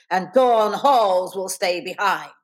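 slow, measured teacher's order; single out a pupil, word by word; stiff. Acted. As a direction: stiff and deliberate. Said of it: "Miss McHinton said stiffly".

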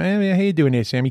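lightly voiced barfly greeting; a hint of Cliffy saying hi to Sammy; Cliffy from Cheers. Comedian briefly trying his old Cliffy impression, lightly voiced. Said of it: "I used to do a good Cliffy".

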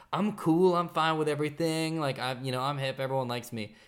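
mock your old fake-cool self; udawana pewność siebie. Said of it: "instead of, like, faking it".

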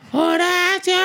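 high, drawn-out mock call of the name; stretched high shout of Horacio; retold yell. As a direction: call Horacio slowly across the dressing rooms. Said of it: "Y me gritaba".

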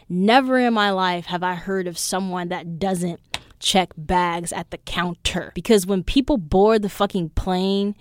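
indignant retold tirade, punched key words; bitchy attitude. Traveler arguing with desk clerk over checking bags, bitchy attitude. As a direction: let the attitude come up as you argue. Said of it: "I could feel my bitchy attitude".

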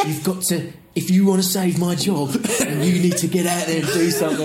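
a laughing, hammed-up Croatian manager's plea; half-laughing Croatian accent, pleading with the players; mock Croatian accent. West Ham manager pleads with his players at half time, in a mock Croatian accent. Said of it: "Slaven Bilic ... he's gone".

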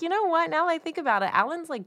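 high-pitched imitation of a smitten woman; voicing Candy's realization. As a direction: lift the voice high for her dawning thought.

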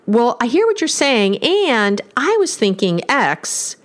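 slow, easy, open "and" take; open and inviting. Shown as a demonstration. Therapist demonstrating the "and" phrasing to couples, inviting and open. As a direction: draw the listener in gently. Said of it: "just listen to that".

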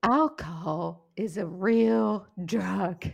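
slow, drawn-out imitation of an Australian ad voice; half-hearted Australian accent, every word stretched; mock Australian ad. Mocking an Australian anti-alcohol video in a lightly put-on Australian accent. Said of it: "a strange accent, but it was in an Australian accent".

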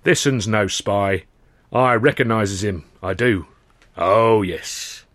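slow, unhurried Cockney giant; calm the lads down, slowly; lightly voiced big docker. Big docker halting the crowd, slow and easygoing.

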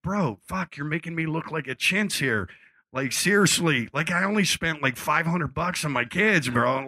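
high, pushed complaint at Mick; mock outrage. Singer protesting to Mick about the gifts, mock outraged.

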